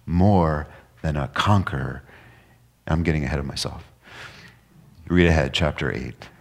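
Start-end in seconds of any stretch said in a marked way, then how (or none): none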